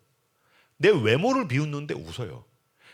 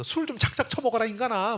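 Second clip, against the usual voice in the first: high-pitched nagging wife; scolding wife; 7 semitones higher than usual. Acted. Wife slapping her drunk husband, high-pitched scolding.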